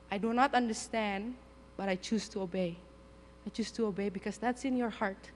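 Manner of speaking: soft, submissive prayer; humble surrender. Retold or imitated. Missionary seated in prayer choosing to obey God, softly surrendering. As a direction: let the voice sink into quiet obedience.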